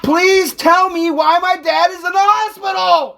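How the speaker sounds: exasperated demand. Real, not acted. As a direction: press every word, losing patience. Escalating argument, demands answer about dad.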